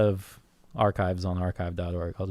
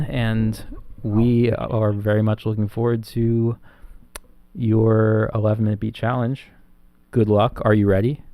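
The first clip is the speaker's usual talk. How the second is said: commentator voice; 8 dB louder than usual. Acted. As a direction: boom it out like a sports commentator. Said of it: "get my commentator voice on".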